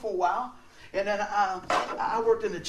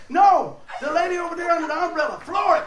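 panicked cover-up; 9 semitones higher, 9 dB louder than usual. Retold or imitated. Retold scared reply to angry man.

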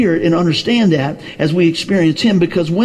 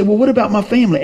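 quoting a skeptic; 6 semitones higher, faster than usual. Retold or imitated. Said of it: "People say".

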